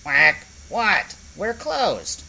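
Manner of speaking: loud, rising annoyed yell; loud impatient yell. Acted. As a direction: bark it through the shutter. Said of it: "yelled out".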